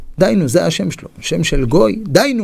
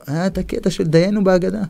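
ordinary talk

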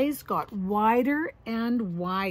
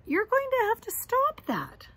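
bossy brother; 12 semitones higher than usual. Acted. Brother scolding sister.

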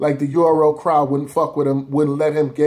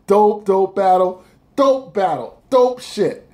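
hyped praise; 4 semitones higher, 3 dB louder, slower than usual. Real, not acted. Hyping the battle.

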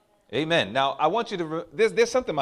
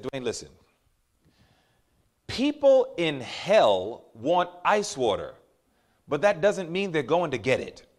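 father's wise words; 2 semitones lower than usual. Retold or imitated. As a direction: lay it down gently like a dad teaching. Father giving son wisdom.

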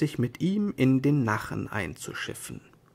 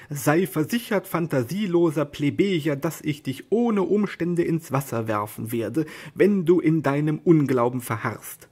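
angry threat; 3 semitones higher than usual. Acted. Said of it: "Don Quixote wurde ernstlich böse".

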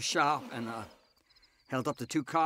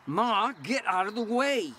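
urgent yell; 8 semitones higher, 4 dB louder than usual. Acted. Son yelling at mother.

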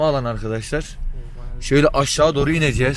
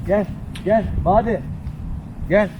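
calling out; 6 semitones higher, slower than usual. Real, not acted. Calling the dog over.

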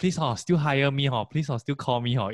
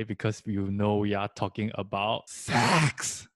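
slow sultry come-on; sexy voice; slower than usual. Acted. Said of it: "Was that your attempt at a sexy voice?".

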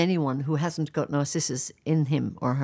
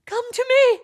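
very high, loud cry; shouting; 7 dB louder than usual. Acted. Echo shouting his words back, high loud. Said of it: "shouted Echo".

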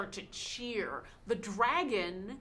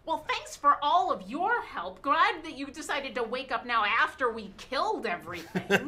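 a touch higher, dry sarcastic thanks; lightly voiced snarky gnome; sarcastic gnome cleric; 4 semitones higher, 5 dB louder than usual. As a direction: thank them with sneering sarcasm. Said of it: "the gnome turns to you and says".

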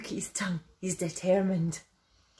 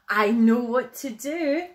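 bright idea, loud and a bit higher; pleased little bear with a plan; gleeful announcement; 4 semitones higher, 7 dB louder than usual. A narrator's reading. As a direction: announce it eagerly, louder and higher. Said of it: "laughed Little Bear".

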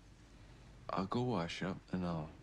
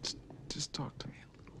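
breathless whispered plea, higher; pleading whisper; 8 semitones higher, 3 dB quieter than usual. Acted. Pleading whisper to his silent brother Adrian. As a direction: beg him softly to talk.

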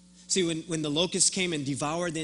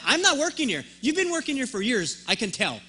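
higher and louder, unloading on him; indignant tirade at the airport worker; imagined rant; 6 semitones higher, 4 dB louder than usual. Pretend. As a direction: let loose the comeback you held back. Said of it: "I was ready to just unleash on him".

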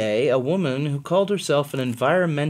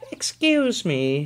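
put-on sweet old lady; 4 semitones higher, slower than usual. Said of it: "she said brightly".

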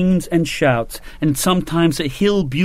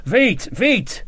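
high, quick shouted commands; Sharp urging French soldiers on in French; 7 semitones higher than usual. A narrator's reading. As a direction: snap out the French order twice. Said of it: "Sharp shouted".

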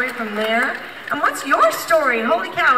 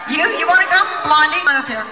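calling from far away; 4 dB louder than usual. Real, not acted. Calling crowd members up.

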